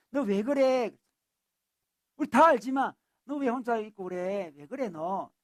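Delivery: lightly voiced God prodding someone to open up; concerned questioning. God asks lonely Elijah to speak his heart, concerned questioning.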